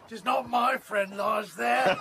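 laughing shout; callous laugh at another's loss. Acted. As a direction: undertaker laughing off the dead man. Undertaker laughs it off.

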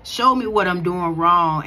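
low, sincere whispered-style plea; low earnest inner prayer. Retold or imitated. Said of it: "You like".

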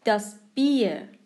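Bier with a long ee vowel, set apart. Shown as a demonstration. Teacher demonstrating vowel pair, Bier with long ee. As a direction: stretch the ie in Bier into ee.

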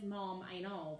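the kind way to say it; gentle tone. Shown as a demonstration. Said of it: "see how different that is".

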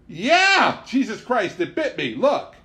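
sudden high, loud yelp of pain; shocked, hurting shout; pained yell. Acted. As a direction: yell out as the monkey bites. Bitten by monkey, yelling.

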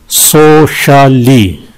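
"सोशली" very slow, in three beats; syllable breakdown. Shown as a demonstration. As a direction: stretch each syllable of "सोशली". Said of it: "तीन है इसमें". ("सोशली" तीन हिस्सों में बहुत धीरे)

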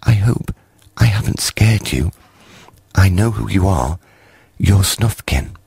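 high, timid small creature voice; shy little creep. A narrator's reading. Creep shyly greeting Snufkin across the brook, high and timid. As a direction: speak up shyly, barely daring. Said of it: "said, very shyly".

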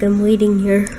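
a hint of a greedy food monster; voicing the cat. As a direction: playfully speak for the hungry cat. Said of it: "He's like".

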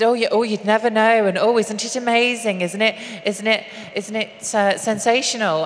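put-on gushing host, northern accent; Piers Morgan in a northern accent. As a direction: gush it in a northern English accent. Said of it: "I'll do Piers Morgan in a northern accent".

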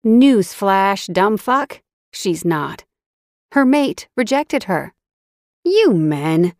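growling scorn. A narrator's reading. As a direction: snap at the clueless man with contempt. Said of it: "she growled".

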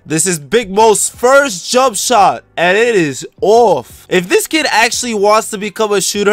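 lively sports commentator delivery; basketball play-by-play. Acted. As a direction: call the game for the viewers at home. Sports commentary over own game.

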